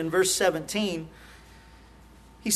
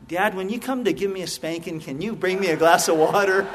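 laughing through punchline; 2 semitones lower than usual. Real, not acted. Child's punchline, preacher laughing.

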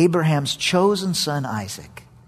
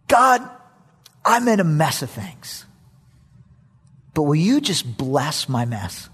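slow plea. Acted. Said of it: "what he's saying to God is".

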